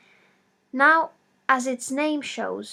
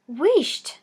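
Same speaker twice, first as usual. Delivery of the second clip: hushing; 4 semitones higher, 6 dB louder than usual. A narrator's reading. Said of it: "said the old woman".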